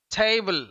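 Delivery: थेबल said with a clear ei glide; pronunciation demo. Shown as a demonstration. Teacher showing exam answer थेबल, careful demo. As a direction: spell out थेबल sound by sound. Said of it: "मतलब ऐसा करेंगे".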